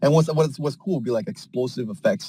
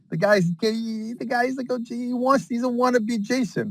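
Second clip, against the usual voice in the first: pitched way up, teasing; high mocking voice; 10 semitones higher than usual. Mocking the wannabe killer in a high squeaky voice. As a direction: sneer at the wannabe Jason in a high voice.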